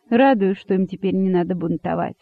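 ordinary delivery

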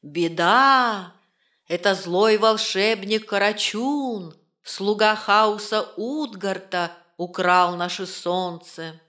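slow, calm voice of the forest; ancient calm rustling echo. Acted. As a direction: speak like an old forest. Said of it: "голос леса".

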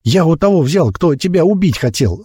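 put-on high-pitched, frantic boy's voice; shrill squeal. A narrator's reading. Frightened boy explaining the dagger, squealing. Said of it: "заверещал паренёк".

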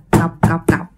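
low, staccato knock sounds; vocal knocks in quick succession; imitated repeated knocking. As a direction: mimic a run of raps on the door. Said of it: "liên tục vậy đó".

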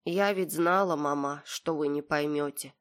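plain reading voice

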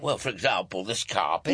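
lightly faked Scottish supervisor; fake Scottish accent. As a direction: bluff along in mock Scottish. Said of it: "What happened to your Scottish accent".

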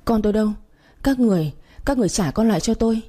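put-on frantic mother demanding her child back, rushing; hysterical wailing. Ánh wakes and cries out for her lost child, panicked. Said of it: "hoảng loạn gào thét lên khóc thảm thiết".

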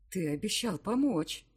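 defiant. Acted. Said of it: "С вызовом обращаюсь к нему".

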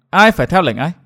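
a tight, threatening challenge; menacing growl. A narrator's reading. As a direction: press the words out in contained anger. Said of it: "gần giọng". (gằn giọng thách thức)

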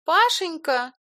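high, loud woman's call; girlish call. A narrator's reading. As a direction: call his name out sweetly. Илона зовёт Пашу. (высокий женский оклик)

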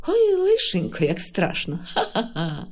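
shrill mock fright, then a teasing laugh. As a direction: pretend fear, then laugh at him. Rusalka mocks, laughing. (глузливий сміх Русалки)

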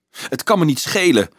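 high-pitched, defiant cry; mild shriek. A narrator's reading. Marieke defies the priest over Rudolf's heresy, mildly shrieking. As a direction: cry it out like a foot-stamping tantrum. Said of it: "gilde Marieke stampvoetend".

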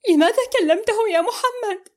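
high, resolute demand; firm. A narrator's reading. Amal firmly confronting Mohamed. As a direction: stand your ground. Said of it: "وقالت بحزم".

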